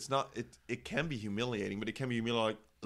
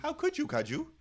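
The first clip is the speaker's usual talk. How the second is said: mock dramatic.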